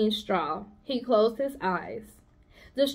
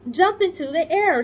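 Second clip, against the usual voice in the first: commanding; 8 semitones higher, 5 dB louder than usual. Acted. Charlotte commands the pig.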